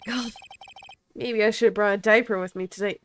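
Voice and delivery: unvoiced whispered aside; teasing whisper aside. Real, not acted. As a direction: whisper it under your breath. Mocking aside about diaper.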